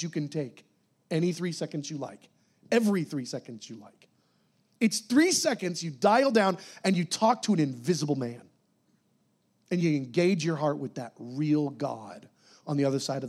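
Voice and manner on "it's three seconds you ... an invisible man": ordinary talk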